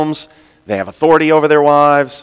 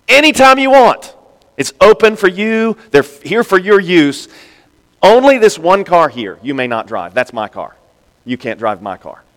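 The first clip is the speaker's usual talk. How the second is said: voicing a generous friend, bright then stern; generous host; 4 semitones higher than usual. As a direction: play the friend showing off his cars. Preacher voicing John's generous offer.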